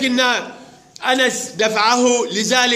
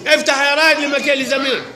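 calling out; 3 semitones higher than usual. Real, not acted. Teacher calling out to pupil.

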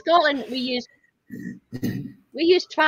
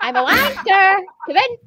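squeaky high voice; 8 semitones higher, 6 dB louder than usual. Pretend. Mock chihuahua greeting, high.

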